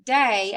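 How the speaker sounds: "day" alone, loud, with a long A; "day" set off clearly, long A; syllable sounded out. Shown as a demonstration. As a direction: stress "day" as a separate syllable. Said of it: "And in the second syllable".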